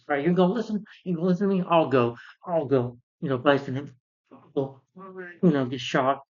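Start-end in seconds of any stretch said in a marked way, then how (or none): 0.1-3.0 mock ranting father. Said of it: "he's like this".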